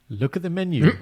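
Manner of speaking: husband pressing his wife to pick, half-exasperated; exasperated urging. Retold or imitated.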